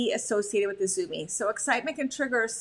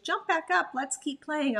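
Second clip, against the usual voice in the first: playful invitation; 4 semitones higher than usual. Acted. Voices invitation in dog's language.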